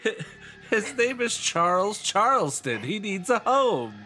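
cutesy high voice. Retold or imitated. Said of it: "And you're just like".

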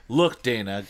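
punchier retake of the line. Acted. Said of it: "clears throat, rereads".

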